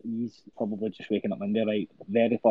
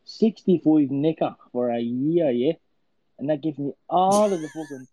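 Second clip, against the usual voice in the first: Conor McGregor voice; 4 semitones higher than usual. Pretend. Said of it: "I'll say that in McGregor speak".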